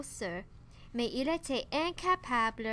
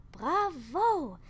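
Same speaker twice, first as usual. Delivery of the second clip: high, loud joyful cheer; s'écria; 5 semitones higher, 3 dB louder than usual. Acted. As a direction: cheer him on. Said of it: "s'écria hibou". (bravo joyeux et fort)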